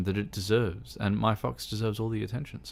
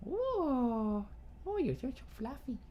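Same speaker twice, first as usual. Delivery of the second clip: high quick squeaky coo; 13 semitones higher, 6 dB quieter than usual. Real, not acted. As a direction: gush at the fluffy pet. Cooing to her fox.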